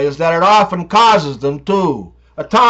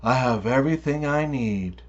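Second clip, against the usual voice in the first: calm reply; 5 semitones lower, 9 dB quieter than usual. A narrator's reading. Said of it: "Walter calmly responds".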